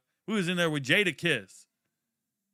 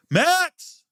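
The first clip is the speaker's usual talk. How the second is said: much higher, louder excited yell; calling out; 9 dB louder than usual. Real, not acted. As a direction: shout his name at the screen. Calling out to draft pick.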